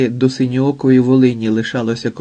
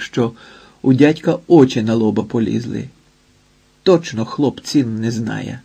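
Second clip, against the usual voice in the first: ordinary delivery, nothing marked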